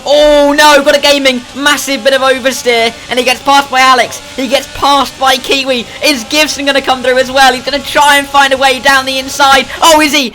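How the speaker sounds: excited high race call; motorsport commentator. Real, not acted. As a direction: call the chaos as it happens. Car spins, chaos on track.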